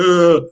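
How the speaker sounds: exaggerated whiny "ugh"; mock crying groan. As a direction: groan like a crybaby, mockingly. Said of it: "why England was crying".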